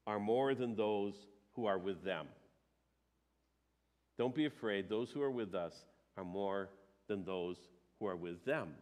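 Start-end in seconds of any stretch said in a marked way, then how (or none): 4.2-8.8 soft reassurance. Shown as a demonstration. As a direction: lower and softer, calm and sincere. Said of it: "repeats the reply softly".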